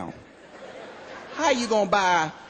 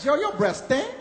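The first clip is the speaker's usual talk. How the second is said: put-on girl going off; 4 semitones higher, slower than usual. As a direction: tell him off, disgusted. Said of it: "She just went off on me".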